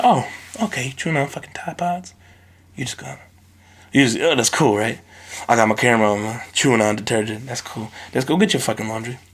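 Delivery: soft, mock-calm sarcasm; sarcastic parent. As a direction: pretend it's cool before the blow. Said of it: "I walk in there".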